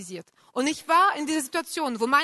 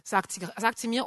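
ordinary talk, nothing marked

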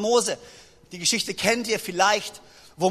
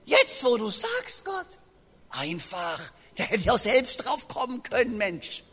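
mock Moses; 6 dB quieter, slower than usual. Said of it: "dass Mose sich gesagt hat".

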